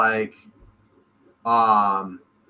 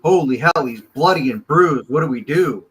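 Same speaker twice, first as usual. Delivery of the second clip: hammed-up English exclamation, higher and louder; mock British accent, raised voice; 3 semitones higher, 6 dB louder than usual. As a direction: do a panicky Brit with a fake English accent. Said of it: "you even chuck a fucking accent on it".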